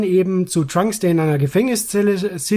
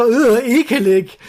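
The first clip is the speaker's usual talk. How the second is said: high, loud, slowed disgust; disgusted groan; 5 semitones higher, 4 dB louder, slower than usual. Retold or imitated. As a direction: drag out the disgust. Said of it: "Trunks denkt so".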